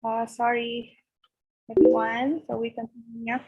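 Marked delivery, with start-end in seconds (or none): none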